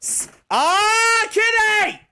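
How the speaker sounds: high yelp calling the cat; high-pitched call. Real, not acted. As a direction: shriek the cat's name.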